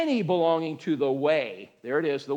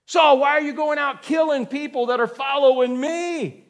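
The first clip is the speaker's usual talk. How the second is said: voice of God; 5 semitones higher, 3 dB louder than usual. Acted. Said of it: "He heard a voice saying to him".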